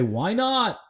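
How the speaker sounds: high, swooping eager question; eager mock scheming. Manager rubbing his hands at big money, eagerly scheming. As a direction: pitch it up like a keen dealmaker. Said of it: "would rub his hands together and say".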